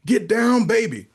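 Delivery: high, loud mock scream; retold party yell. Man shouting along to his music at home, mock scream. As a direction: cry out like a reveler, pitch up. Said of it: "he screamed out".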